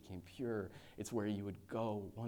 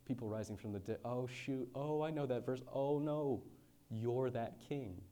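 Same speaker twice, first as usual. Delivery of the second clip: dawning alarm; 3 semitones higher than usual. Retold or imitated. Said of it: "in their mind they're going".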